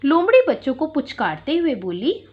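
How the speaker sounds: plain reading voice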